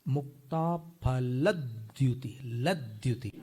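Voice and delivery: slow मुक्ता फलद्युति with the weight on ल of फलद्युति; stress on ल. Shown as a demonstration. Teacher showing students the stress on ल. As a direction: lean on the ल in लद्युति. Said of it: "ल पे फिर स्वराघात आएगा".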